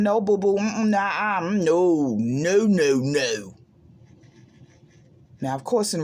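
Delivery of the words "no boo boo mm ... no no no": firm refusal. Retold or imitated. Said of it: "I had to tell him".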